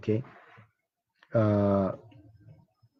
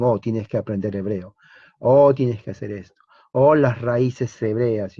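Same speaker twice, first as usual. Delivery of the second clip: mocking quote. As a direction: parody their insistent advice, slowing down. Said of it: "muchos mesiánicos dicen". (burla de los mesiánicos, alargando el final)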